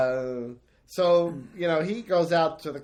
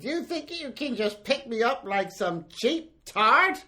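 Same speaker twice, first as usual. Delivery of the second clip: mock outrage; 8 semitones higher than usual. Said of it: "now she's outraged".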